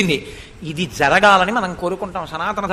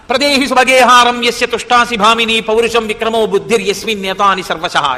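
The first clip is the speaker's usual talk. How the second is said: Sanskrit verse recitation. Acted.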